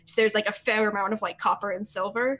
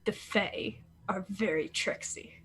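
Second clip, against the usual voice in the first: slow, hushed, knowing reply; lightly voiced, slow and secretive bard; mysterious blind bard; 5 dB quieter, slower than usual. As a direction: drop it slow like a cryptic warning.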